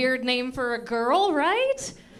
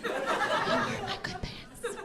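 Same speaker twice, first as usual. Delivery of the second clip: mock mourning old man; 6 semitones higher, 6 dB louder, slower than usual.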